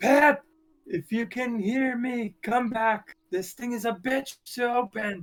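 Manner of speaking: loud, high yell in a character voice. Playing a character holding doors open, calling to Pep: in-character yell. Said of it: "I'll yell".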